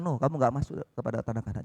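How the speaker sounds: low, grave voice of God; lightly voiced stern God. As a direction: pronounce the sentence as God, low. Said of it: "Tuhan bilang".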